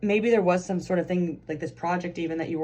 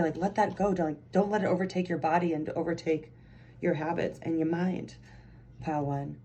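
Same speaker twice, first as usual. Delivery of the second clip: a little passionate. Real, not acted. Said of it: "got a little passionate at the end".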